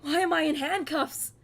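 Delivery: high, loud, alarmed outburst; theatrical freak-out at being restrained; acted panic. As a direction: cry out in mounting alarm and confusion. Acts sailor waking in handcuffs.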